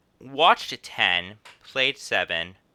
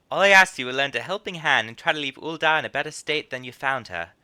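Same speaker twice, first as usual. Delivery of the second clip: put-on higher, accented guild host voice; lightly voiced innkeeper; 5 semitones higher than usual. Innkeeper offers guild membership, lightly voiced. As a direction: make the offer as a chatty innkeeper.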